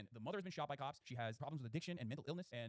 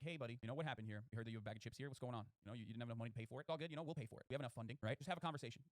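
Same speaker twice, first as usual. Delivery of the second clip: imitating a gentle cop; 4 semitones lower than usual. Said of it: "just being like".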